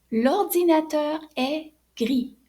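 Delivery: slow, gris ending on a silent s; teacher modelling gris slowly; slow model sentence. Shown as a demonstration. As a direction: say gris with no sound after the i. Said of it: "So no change".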